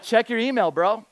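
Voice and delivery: high, loud mock outburst; exasperated retort. Visitor to leader who never replied, mock exasperation.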